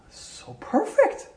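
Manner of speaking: high, stretched-out "So perfect" in delight. Retold or imitated. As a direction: savor the lucky find. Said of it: "delighted thought".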